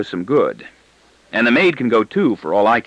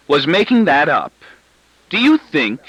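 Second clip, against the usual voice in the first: louder, higher, expansive gloat; gloating bellow; 6 semitones higher, 5 dB louder than usual. A narrator's reading. Wife revealing her prank to the family, gloating bellow. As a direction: crow over your little victory. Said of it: "in an expansive bellow of glowing self-congratulation".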